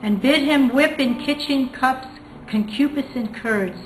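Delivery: measured, declaiming poetry reading voice; poem reading. Acted. Teacher reading the poem aloud to students, declaiming. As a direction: read the poem out to the class with weight.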